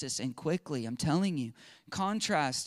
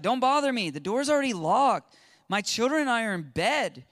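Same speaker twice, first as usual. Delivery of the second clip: annoyed neighbor; 5 semitones higher, 5 dB louder than usual. Retold or imitated. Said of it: "the annoying friend".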